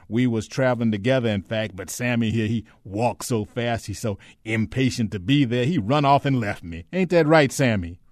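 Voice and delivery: put-on chattering, placating, humble old-servant act; ingratiating Shine figure. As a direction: talk the armed man down, eager and deferential. Ben keeps up the act.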